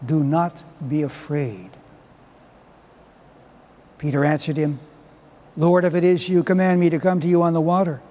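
measured liturgical proclamation; Gospel reading. Acted. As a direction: read scripture aloud to the congregation.

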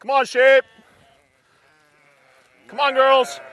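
high, loud sing-song call to the flock; calling sheep. Real, not acted. Farmer calling sheep up hill.

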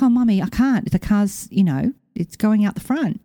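a hint of a fretful pup; dog's voice. Owner voicing dog refusing to jump in, lightly high.

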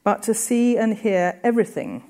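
quoted reading. Shown as a demonstration. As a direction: read the quote out with care. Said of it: "and I quote".

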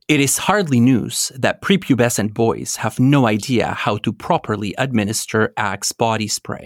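news anchor read; lightly voiced journalist reading a report; field reporter. Shown as a demonstration. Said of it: "imagine this in a journalistic voice".

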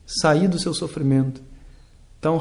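ordinary delivery

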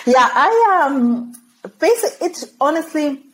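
breaking into a laugh mid-answer. Real, not acted. Guest laughing as she recalls leaving home. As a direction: laugh through the words.

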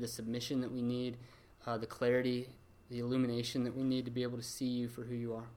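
closing prayer. Acted.

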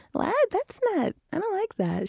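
high, indignant disbelief; mock shock. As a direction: act offended by the nickname. Reacting to being called fireball.

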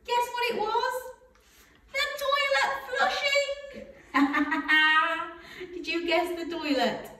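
high singsong, laughing; reading to a toddler. Acted. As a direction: sing it to a small child.

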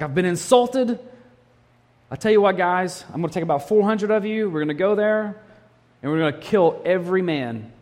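high, loud, angry war cry to his men; furious rallying shout. Retold or imitated. David tells his men he will kill every man. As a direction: rile up the troops for revenge. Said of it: "he was livid".

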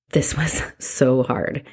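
slow whisper with a small laugh; a rueful whispered aside; whispered admission. Real, not acted. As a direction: breathe it out with a laugh. Admitting struggle, laugh, whisper.

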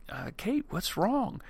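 high, startled question to his crying wife; suddenly worried, voice jumps up; alarmed concern. Retold or imitated. Husband sees tearful wife, asks in high alarmed concern.

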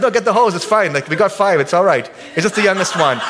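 hammed-up frantic insistence; mock panic. Husband joking to wife as the car smokes.

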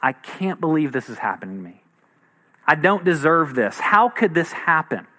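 mild, hushed disbelief at the start; stunned disbelief. Retold or imitated. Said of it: "get the news that things have gone wrong".

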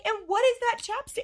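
high exasperated question. Retold or imitated. Mom retelling how she questioned Teddy about the chapstick. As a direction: demand it in disbelief. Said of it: "I'm like".

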